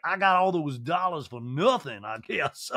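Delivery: slow put-on drawl; Sutton. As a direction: drawl it out, then drop away. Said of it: "And Sutton's like".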